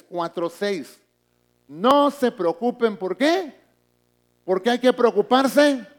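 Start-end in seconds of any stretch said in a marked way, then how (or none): 1.7-5.9 booming preached quote. Acted. Preacher voicing the scripture.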